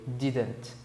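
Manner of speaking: "didn't" in two syllables, "di-dnt"; pronunciation of "didn't". Shown as a demonstration. Teacher showing students how "didn't" is pronounced, neatly. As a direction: model "didn't" neatly for a learner. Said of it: "como que se pronuncia".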